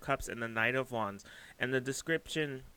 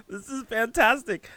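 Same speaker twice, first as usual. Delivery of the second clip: delighted exclaim; 10 semitones higher, 9 dB louder than usual. Real, not acted. Gushing over the reading.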